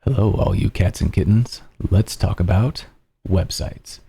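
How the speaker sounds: a hint of a smooth late-night DJ, fading to a whisper; lightly voiced radio host easing into softness; nighttime DJ voice. Shown as a demonstration. Hosting his stream as a lightly voiced late-night DJ, trailing off to a whisper. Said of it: "my nighttime D J voice".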